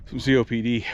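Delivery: short of air, pushing words out; breathless after exertion; out of breath. Real, not acted. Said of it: "sorry, I'm out of breath".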